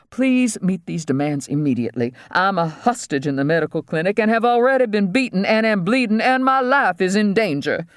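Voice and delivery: high-pitched, urgent appeal; pleading hostage dentist. Acted.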